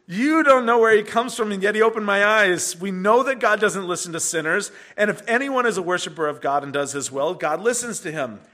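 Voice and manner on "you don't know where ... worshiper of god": louder, higher, emphatic rebuttal; bold retort. Retold or imitated. Healed man rebuking the Pharisees, loud and bold. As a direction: throw it back at them.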